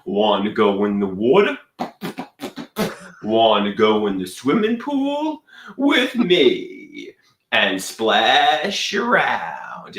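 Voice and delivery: put-on Brooklyn accent, stretching the ending; fake Brooklyn accent. Claiming to be from Brooklyn, fake Brooklyn accent. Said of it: "I talk like I'm from Brooklyn".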